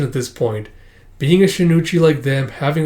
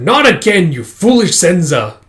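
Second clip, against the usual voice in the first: louder, higher reprimand, acted out; mock scolding; 4 semitones higher, 6 dB louder than usual. Master scolding admonished pupils, mock reprimand. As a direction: tell off foolish pupils in a raised voice.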